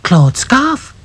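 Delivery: high cry; sudden realisation. Acted. Lucy realising the lost scarf, cry. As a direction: blurt it out. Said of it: "cried Lucy".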